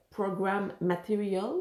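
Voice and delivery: slow, careful English accent on a French speaker's tongue. Real, not acted. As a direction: say it slowly with an attempted English accent. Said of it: "Super bel accent". (accent anglais appliqué, lentement)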